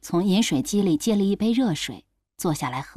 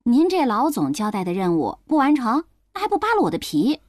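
testy comeback, rising higher and quicker at the end; grumpy retort; 3 semitones higher than usual. Acted. Overworked employee answering the boss about unfinished work, grumpy. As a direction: snap back with mild annoyance. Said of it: "没好气地回了一句".

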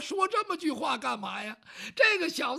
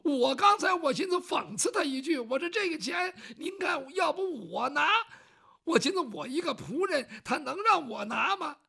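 higher, heated, shouting at times; indignant rant; 6 semitones higher than usual. Acted. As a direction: rail against the cheat. Servant ranting about the swindler.

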